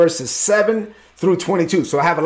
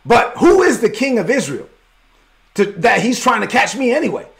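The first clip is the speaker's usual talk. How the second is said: higher and higher, pressing; building indignation; 6 semitones higher than usual. Acted. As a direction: build the challenge to a peak. David's rising challenge.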